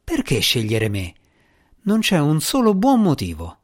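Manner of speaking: urgent, rising pressure; pressing. Acted. The djinni pressing Asmira, urgent and insistent. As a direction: push the question hard. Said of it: "La voce del gin si fece pressante".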